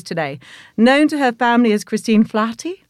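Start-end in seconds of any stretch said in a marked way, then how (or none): 1.8-2.8 name said with a light Irish lilt; Irish-accented pronunciation of the name. Acted. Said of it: "I'm pronouncing that with an Irish accent".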